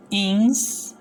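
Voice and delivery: "instinto" as ins, tin, to with long pauses; split into syllables. Shown as a demonstration. Teacher answering how to separate it, "instinto" syllable by syllable. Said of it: "cómo separamos instinto".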